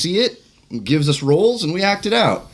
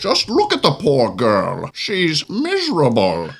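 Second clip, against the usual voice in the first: Bane voice; 2 semitones lower than usual. Acted. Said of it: "as a Bane".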